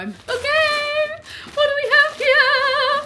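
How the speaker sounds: very high, loud and slow; excited squeal. Real, not acted. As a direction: drag it out in a thrilled squeal. About to open parcel.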